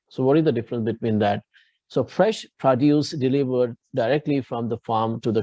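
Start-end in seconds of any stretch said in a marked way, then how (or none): 2.0-3.1 "produce" said PRO-duce; "produce" as a noun, PRO-duce; stress on first syllable. Shown as a demonstration. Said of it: "the accent on the first syllable".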